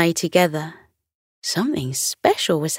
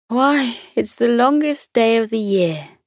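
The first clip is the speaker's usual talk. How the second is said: higher, bright sun character; warm beaming sun voice; 5 semitones higher than usual. Acted. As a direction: voice the cheerful sun. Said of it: "replied the sun".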